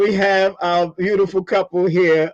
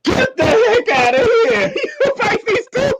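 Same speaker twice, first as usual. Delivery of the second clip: excited disbelief. Real, not acted. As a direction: burst out in delighted shock. Sister shares his Pisces birthday.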